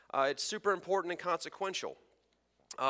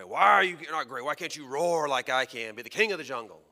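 boastful lion; 7 dB louder than usual. Acted. Lion bullying the monkey.

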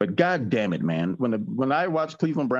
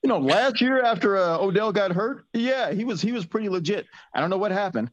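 trying not to laugh; 9 semitones higher than usual. Real, not acted. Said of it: "now he's laughing".

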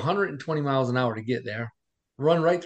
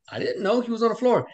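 retold yelling back; 9 semitones higher than usual. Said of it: "I started screaming at the doctor".

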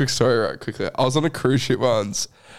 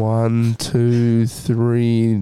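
soft echoing dream voice; 3 semitones lower than usual. Pretend. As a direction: lull them like a hypnotist. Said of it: "they'll do an A S M R for you".

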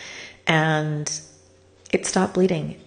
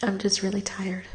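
tearful whisper; 3 dB quieter than usual. Real, not acted. Crying while telling story.

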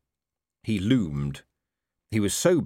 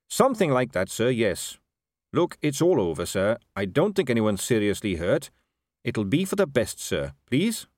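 earnest captain, placating; 3 semitones higher than usual. Acted. Captain pleading with his commander to leave it, earnest and placating. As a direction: gently urge your superior to let it drop.

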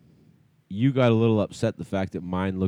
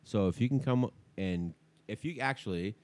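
softer radio-host voicemail; voicemail message; 4 dB quieter than usual. Acted.

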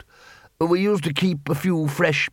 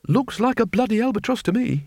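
put-on higher, blunt old wizard voice; gruff Ridcully; 9 semitones higher than usual. A narrator's reading. The wizard to Vetinari over the bird, a blunt higher wizard voice. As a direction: blurt it out like a plain-spoken wizard.

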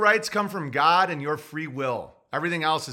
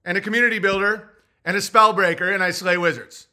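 mock proud listing; 4 semitones higher, 5 dB louder than usual. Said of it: "So what do you do for a living".

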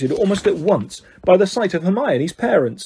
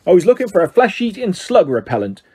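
growled; 2 semitones higher than usual. Acted. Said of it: "growled Hagrid".

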